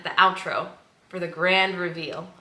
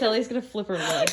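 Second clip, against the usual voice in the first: laughing quote; 4 semitones higher than usual. Retold or imitated. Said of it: "I literally was like".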